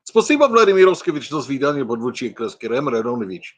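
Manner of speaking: playful pretend Russian speech; mock Russian. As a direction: rattle off mock Russian, falling in pitch. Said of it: "I'll do this one in Russian".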